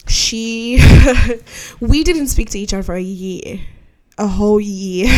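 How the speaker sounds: amused disbelief, breaking into laughter; laughing. Real, not acted. Telling of a year not speaking to a friend, laughing. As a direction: laugh through the words. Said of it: "I just laugh".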